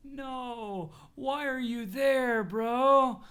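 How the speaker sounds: laughing disbelief. Real, not acted.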